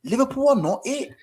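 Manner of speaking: condescending Gunali voice. Retold or imitated. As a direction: talk down to him like a smug teacher. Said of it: "It's the condescending whisper".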